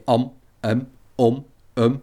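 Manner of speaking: am, om, um with the lips closing on an M; closed nasals. Shown as a demonstration. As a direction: shut the mouth at the end of am, om, um. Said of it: "il faut apprendre à fermer la bouche".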